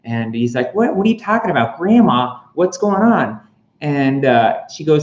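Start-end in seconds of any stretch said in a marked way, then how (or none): 0.7-3.4 higher, fast, flustered questions; panicked confusion. Retold or imitated. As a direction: rattle it off in confused alarm. Happy confused by eviction.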